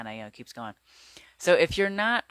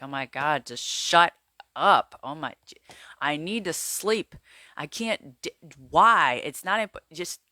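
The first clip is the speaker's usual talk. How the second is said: higher, louder exasperated pleading with your own mind; frustrated outburst; 3 semitones higher, 5 dB louder than usual. Retold or imitated. Lying awake at the racing mind, an exasperated higher, louder outburst. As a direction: snap at the thoughts that won't shut up, then stumble. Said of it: "you're frustrated and you're like".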